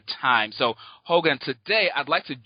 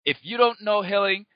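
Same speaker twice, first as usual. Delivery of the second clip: excited hype; 3 semitones higher than usual. Real, not acted. Host hyping up the guest for listeners, excited. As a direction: build the crowd up for the guest. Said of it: "I'm so excited".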